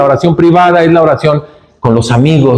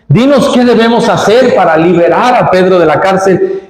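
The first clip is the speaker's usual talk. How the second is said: raised, earnest imploring voice; pleading church prayer; 6 semitones higher than usual. Retold or imitated. The church begging God to free Pedro, raised pleading prayer. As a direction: beg the Lord on Pedro's behalf.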